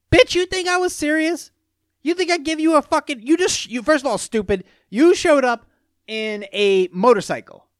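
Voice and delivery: high-pitched, exaggerated outrage; mock indignant rant. Man imagines telling off the car taker, mock outraged. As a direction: rant it high, as in a heated retort.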